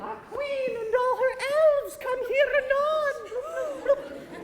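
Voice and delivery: high, slow, lilting fairy. Acted. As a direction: sing it like a tiny fairy. Fairy speaks.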